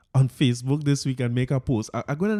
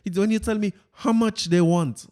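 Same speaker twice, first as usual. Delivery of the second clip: Fitz voice; 5 semitones higher than usual. Retold or imitated. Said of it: "let me get my Fitz voice here".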